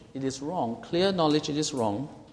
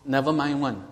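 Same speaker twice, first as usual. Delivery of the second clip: Singlish. Retold or imitated. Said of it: "brush the rule aside and say".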